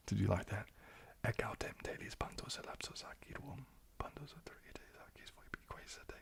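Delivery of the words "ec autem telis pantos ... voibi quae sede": a very soft, breathy ASMR whisper of Latin verse; whispered Latin reading. Shown as a demonstration. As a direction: read the Latin as a hushed whisper for the listeners. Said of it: "More readings in Latin, please".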